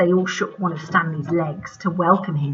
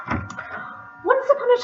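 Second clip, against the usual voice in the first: sing-song storytelling; slower than usual. A narrator's reading. Storybook opening, slow and high.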